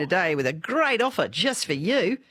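a lightly voiced sales-pitch robot; hint of a canned telemarketer pitch; mock AI caller. Host mimics AI sales pitch.

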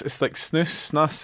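snus with an oo sound, "snoos". Shown as a demonstration. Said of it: "what they call it in".

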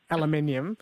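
"aluminium" said as al-a-MIN-ee-um; preferred pronunciation. Shown as a demonstration. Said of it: "I got to say".

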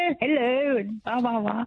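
imitating mother's high, exemplary telephone voice; posh phone voice. Daughter mimics mother answering the phone, posh voice. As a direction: put on a high-pitched posh hello. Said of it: "put on her very best posh voice".

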